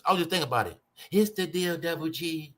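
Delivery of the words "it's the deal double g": lightly voiced rapper impression; a hint of a famous rapper's voice. Showing listeners a rapper's voice, lightly imitated. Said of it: "Think about Snoop Dogg voice".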